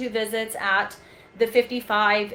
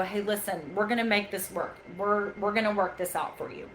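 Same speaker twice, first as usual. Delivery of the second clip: softer, soothing demo for an irate patient; calm, soothing; 5 dB quieter than usual. Shown as a demonstration. Trainer showing staff how to calm upset patients, soft and soothing. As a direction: settle them down softly and evenly. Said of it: "is to be calm".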